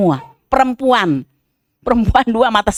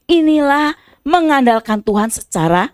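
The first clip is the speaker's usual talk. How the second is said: rising, fervent sermon voice; preaching; 6 semitones higher, 4 dB louder than usual. Acted. Pastor exhorting the congregation, fervent preaching. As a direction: preach it out to the church.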